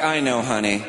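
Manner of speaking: low, slow drawn-out consoling moan; mock-sympathetic wife.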